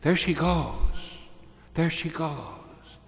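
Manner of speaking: high, drawn-out call; retold child's cry, long sustained vowels. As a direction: cry it out slowly, pitched well up. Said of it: "And then Lucy cries out".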